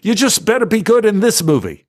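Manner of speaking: a touch of a stern British mentor; Alan's voice. Retold or imitated. Mentor teasing actor who thanked him, mock scolding. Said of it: "he goes".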